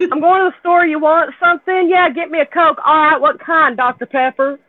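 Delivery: lightly acted dialogue, pitch lifted; Southern store exchange.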